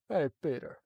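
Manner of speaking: Joe warm-up line. Shown as a demonstration. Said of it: "I have to start off with".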